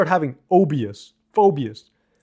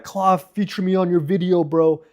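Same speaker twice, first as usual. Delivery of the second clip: pestering fan; 4 semitones higher than usual. Retold or imitated. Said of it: "It's not like one guy, like".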